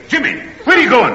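high-pitched exasperated call; calling after someone. Acted. Father to fleeing Jimmy, alarmed calling. Calls after boy running away.

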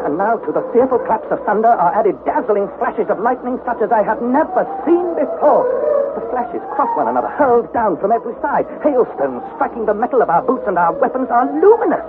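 high, intense storytelling; dramatic narration. A narrator's reading. Narrator describing lightning over the raft, awed intensity. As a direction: tell it at the storm's height, voice lifted.

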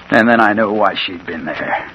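ordinary delivery

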